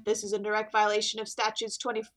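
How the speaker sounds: lightly voiced, formal detective; officious detective. Detective threatening a jailer with legal action, officious. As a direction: recite the law with measured authority. Falcon recites law at jailer.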